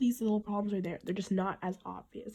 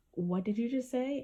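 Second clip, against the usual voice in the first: higher-pitched mock disbelief; retold freak-out; 4 semitones higher than usual. Elaine reacts to him having no ability, mild retold freak-out. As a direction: quote her shocked question, mildly acted. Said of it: "she just freaked out".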